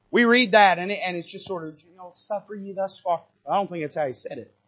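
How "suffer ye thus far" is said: soft, limp, meek reading; pansified. Shown as a demonstration. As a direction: say it weakly, all the force drained out.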